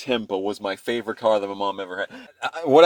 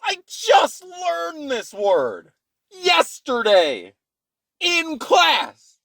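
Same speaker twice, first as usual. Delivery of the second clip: put-on whiny kid plea; 11 semitones higher, much slower than usual. Kid pleading with mom.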